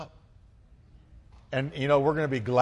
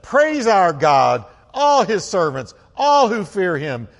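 loud, high, slow proclamation; big, drawn-out regal call; voice from the throne; 6 semitones higher, 10 dB louder, slower than usual. Acted. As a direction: thunder it out as a command from heaven. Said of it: "throne came a voice".

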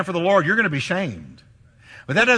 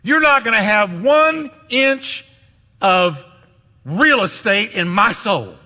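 defiant declaration; 3 semitones higher, 3 dB louder than usual. Retold or imitated. Jesus rebuking shame, loud and defiant. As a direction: throw it back at shame with defiance. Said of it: "He said".

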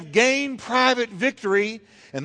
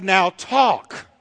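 a short barked command, louder; commanding shout; 4 dB louder than usual. Retold or imitated. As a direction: order him to speak now, like God. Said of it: "And God said".

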